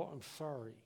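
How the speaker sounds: low, soft mock-sorry; imitating a kid's reluctant apology; feigned apology. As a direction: drop it down for Dad, meekly insincere. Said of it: "Dad'd say, "What'd you say?".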